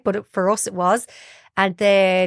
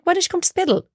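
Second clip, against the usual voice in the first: higher-pitched voicing of a friend's invitation; retold friend; 11 semitones higher, faster than usual. Friend inviting mum to move to Spiddal, retold invitation. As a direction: lightly act out a friend coaxing. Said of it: "she had this friend".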